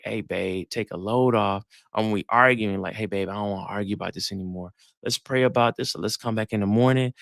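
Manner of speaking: calm her man's storm tenderly; gentle girlfriend. Retold or imitated. Voices gentle ideal woman.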